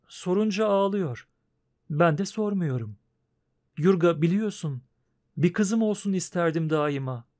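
put-on wife gently pleading for the girl. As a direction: win him over gently.

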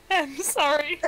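sorry, said while trying not to laugh; embarrassed, giggly sorry; giggling apology. Real, not acted. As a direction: apologise through suppressed giggles. Giggling apology after private joke slips out.

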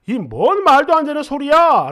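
retold indignant outburst; a touch of exasperated anger; angry retort. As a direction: snap back in mock anger. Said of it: "화를 한번 냈어요".

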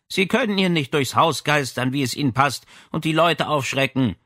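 put-on mild girlish reproach; a hint of a scolding old lady. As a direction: Madame Berger scolds the officers, lightly. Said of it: "sagte sie tadelnd".

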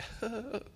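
imitated high, soft gasp of welling emotion; funny emotional breathing. Preacher showing how seeing worshippers moves him, mock tearful gasp. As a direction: catch your breath as if about to cry. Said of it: "start breathing all funny".

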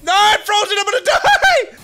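laugh-shout in helpless panic. Real, not acted. Frozen, about to die.

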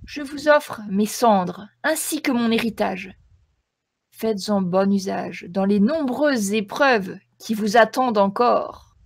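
loud solemn ghost voice; sepulchral voice. Acted. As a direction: proclaim it like an ancient ghost. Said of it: "d'une voix sépulcrale".

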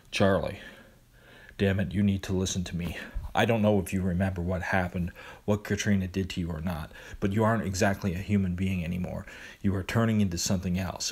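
stern but level; monotone voice. Acted. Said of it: "his usual monotone voice".

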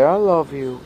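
sing-song model phrase for the cat; coaxing demo. Shown as a demonstration. Owner modelling words for cat, lilting. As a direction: coax the cat with a lilting I love you.

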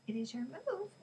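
instructing. A narrator's reading. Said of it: "he instructed Ellie".

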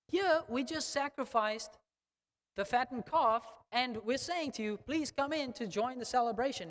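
a lightly voiced father begging him to come in; pleading father. Voicing father pleading with son.

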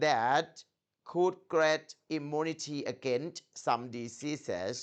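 very slow, careful read-aloud of English text; slow textbook reading demo; model reading. Shown as a demonstration. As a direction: read it word by word for the student to copy. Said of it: "ครูอ่านหนึ่งรอบ มาร์คต้องอ่านตามครูได้".

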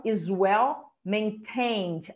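"well" stressed in "is well maintained", slow. Shown as a demonstration. Teacher marks stress on "well" for students. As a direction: lean on "well" and stretch "is well maintained". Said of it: "aqui é estressadinho".

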